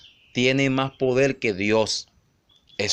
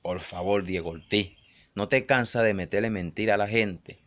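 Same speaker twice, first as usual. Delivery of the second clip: quiet aside; 4 semitones lower, 5 dB quieter than usual. Retold or imitated. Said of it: "como diciendo".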